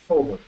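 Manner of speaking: "Forward" said as natives do, R dropped; "Forward", first R unsounded; silent R. Shown as a demonstration. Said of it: "no suena la R".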